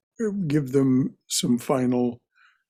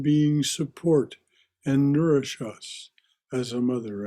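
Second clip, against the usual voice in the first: measured prayer with reverent pauses; prayer recitation. Real, not acted.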